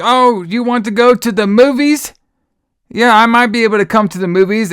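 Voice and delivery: mock screaming girl. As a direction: ham up a kid shrieking every line. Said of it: "And she's screaming".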